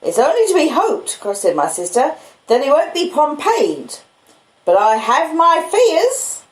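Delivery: high, sharp scolding woman; the stern older sister bursting in; sister's voice. Acted. Mrs Joe doubts Pip.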